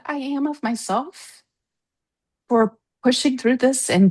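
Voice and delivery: fighting back tears of pride; choked-up, halting words; tearing up. Real, not acted. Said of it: "like, tearing up".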